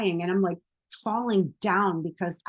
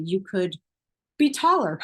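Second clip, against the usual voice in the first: joking. Real, not acted. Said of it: "Crack myself up".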